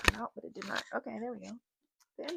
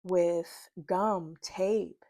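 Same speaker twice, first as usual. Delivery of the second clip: slow, deliberate read-aloud; spoken message, paced phrase by phrase; reading a channeled message; slower than usual. Real, not acted. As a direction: read it out in measured phrases with pauses.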